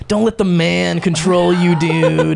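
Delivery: laid-back stoner dude; hippie voice. Retold or imitated. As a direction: drawl it like a mellow hippie. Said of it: "the hippie voice in my head".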